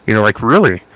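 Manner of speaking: goofy cartoon bear voice with swooping pitch; Tim the Bear. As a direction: talk like a cartoon bear, ending in a growl. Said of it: "You know, like the bear, Tim the Bear".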